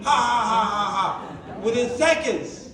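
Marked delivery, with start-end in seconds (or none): 0.0-1.6 demo laughing. Shown as a demonstration. Showing the seminar cry-laugh exercise, laughing. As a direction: laugh on cue suddenly. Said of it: "cry and laugh at the same time".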